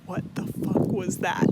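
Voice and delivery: whispered. Retold or imitated. Baffled after stranger slinks off.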